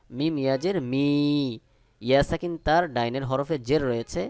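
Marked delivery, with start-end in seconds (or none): 0.9-1.1 মি with a long, evenly held ee; one-alif stretch. Shown as a demonstration. Teacher repeats the spelling, stretching মি one alif long. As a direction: hold the vowel of মি for a beat. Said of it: "এক আলিফ টান".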